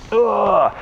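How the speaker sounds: short grunt into a stretch; effortful groan. Real, not acted.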